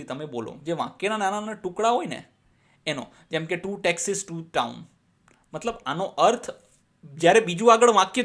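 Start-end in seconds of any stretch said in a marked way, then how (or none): 3.5-4.7 very slow, each word spaced out; slow tongue twister reading. Shown as a demonstration. Teacher models a tongue twister for students, very slow. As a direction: read it out word by word for the class. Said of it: "Speak them repeatedly".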